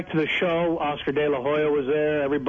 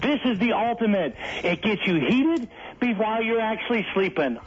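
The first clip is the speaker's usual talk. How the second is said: upbeat TV salesman pitch, higher; infomercial pitchman; 5 semitones higher than usual. Acted. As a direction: sell it like a late-night ad. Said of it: "I want you to hawk my space heater".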